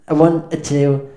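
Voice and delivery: loud count-in to the band; count-in call. Real, not acted. Bandleader to his band, a loud count-in. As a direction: call the band in, punching each number.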